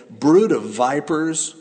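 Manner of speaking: booming prophet denouncing hypocrites; stern rebuke. Acted. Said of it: "he said".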